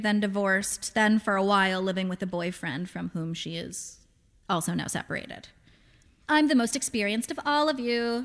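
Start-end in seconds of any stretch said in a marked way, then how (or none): 6.3-8.2 lilting sing-song mother's voice. Acted. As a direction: sing it out playfully. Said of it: "she said in a sing-song voice".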